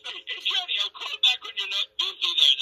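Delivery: high, lilting Irish leprechaun. Pretend. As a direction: play a cheeky leprechaun. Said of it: "that's my leprechaun voice doing it".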